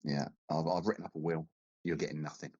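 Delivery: hammed-up sick, feeble voice; man flu. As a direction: play the dying invalid with man flu. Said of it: "I've got man flu".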